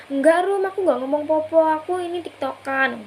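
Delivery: re-enacting a friend's shouted reply; retold calling back. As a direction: call back a quick protest, loudest at the start.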